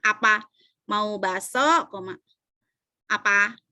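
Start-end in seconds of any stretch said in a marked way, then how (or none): 0.9-1.9 slow 'Mau bakso' lifting at the end; drawn-out question rising on 'bakso'; rising option intonation. Shown as a demonstration. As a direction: stretch it and leave bakso hanging upward. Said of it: "intonasinya kayak gini".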